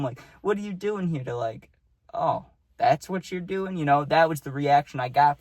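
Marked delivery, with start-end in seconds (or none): 0.4-1.2 tag. Retold or imitated. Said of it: "You could see his face going from". 2.1-3.8 face dropping, let down. Retold or imitated. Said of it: "his face dropped".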